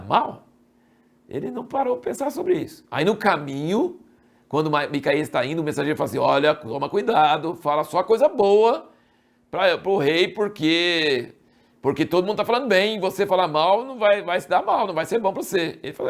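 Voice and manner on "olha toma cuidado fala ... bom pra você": raised, insistent warning; urgent warning. Acted. Messenger warning Micaías to say only good things, urgent warning. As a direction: caution someone urgently, pitch climbing. Mensageiro alerta Micaías no caminho.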